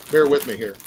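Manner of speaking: talking while chewing; words round a bite of food; mouth full. Real, not acted. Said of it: "my mouth is full".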